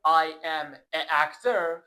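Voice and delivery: slow "an actor" said as "a actor", with no n between the vowels; hard vowel clash. Shown as a demonstration. Teacher shows learners the hard form, "an actor" without its n. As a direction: break between the article and "actor", leaving out the n of "an". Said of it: "خیلی سخته. به حنجره فشار میاد".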